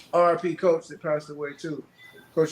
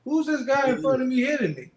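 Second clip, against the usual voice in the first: high, bewildered rambling after a hit; high dazed voice of a hit fighter; dazed confusion; 10 semitones higher, 3 dB louder than usual. Retold or imitated. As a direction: play it punch-drunk and lost. Dazed boxer after getting hit.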